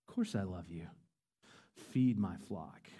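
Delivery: soft reply. Retold or imitated. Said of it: "Second time".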